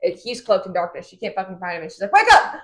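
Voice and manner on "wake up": high, loud mock yell; sudden loud imitated cry; retold shout. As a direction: shout it like rousing a sleeper. Retold shout to sleeping man.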